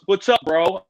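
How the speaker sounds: breezy bro hello; casual bro greeting. Retold or imitated. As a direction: toss it off like a laid-back star. Vince Vaughn greets him casually.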